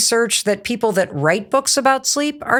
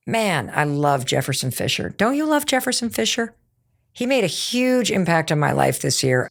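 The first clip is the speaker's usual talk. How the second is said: slow drawl; 3 semitones lower than usual. Retold or imitated. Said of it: "talk in that slow kind of drawl that he has".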